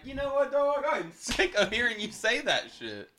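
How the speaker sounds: a high, mock-irritated comeback; lightly acted angry retort; imitating a snap. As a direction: playfully act fed up with a buddy. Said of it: "and I'm like".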